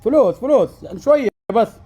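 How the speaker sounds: shouting into the phone; loud, blaring voice; too loud, headphones on. Acted.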